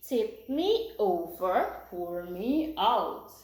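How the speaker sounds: slow, measured nursery-rhyme chant; rhyme recitation. Shown as a demonstration. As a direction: recite it slowly for children to learn. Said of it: "do the entire thing together".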